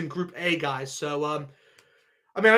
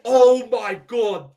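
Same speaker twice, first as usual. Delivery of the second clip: amazed; 2 semitones higher, 6 dB louder, much slower than usual. Real, not acted. Amazed at England's group.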